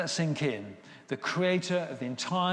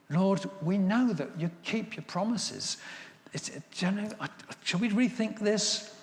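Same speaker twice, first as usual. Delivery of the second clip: lightly acted hesitant petitioner, often higher; mildly pitched-up diplomatic appeal; tactful pleading; 5 semitones higher than usual. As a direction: gently talk the boss round, with halting starts. Moses cautiously pleads with God.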